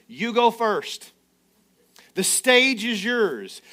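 slow, gracious mock courtesy; gentlemanly. Elijah to Baal's prophets, slow mock politeness. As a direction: hand them the stage with a mock bow.

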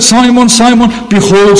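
"Simon, Simon" pitched high, both names pressed with equal urgency; emphatic repeated name. Acted. Preacher quoting Jesus warning Peter, emphatic "Simon, Simon". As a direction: lean hard on "Simon, Simon", high and insistent. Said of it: "Again, the emphasis".

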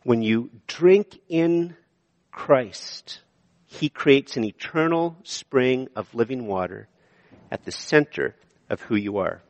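hushed restatement; slow hushed repeat. Shown as a demonstration. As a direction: linger on Christ, then soften. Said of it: "And the second point".

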